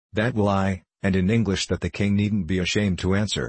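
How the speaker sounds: ordinary delivery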